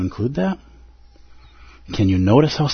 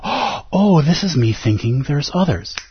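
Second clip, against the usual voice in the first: gasping realization; 2 semitones higher, slower than usual. Acted. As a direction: act a mild sudden discovery.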